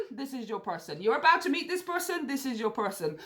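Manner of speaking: normal talking voice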